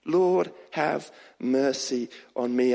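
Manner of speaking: slow, drawn-out plea for mercy. Acted. Preacher praying as if everything's going wrong, slow plea. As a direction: stretch out each word as a heartfelt prayer. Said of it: "and cry out".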